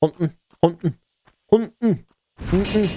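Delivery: "Hunting" with the T dropped, like hunnin; glottal hunting. Shown as a demonstration. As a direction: swallow the T in "Hunting". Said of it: "I never pronounced the T in hunting".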